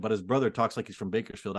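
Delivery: ordinary talk, nothing marked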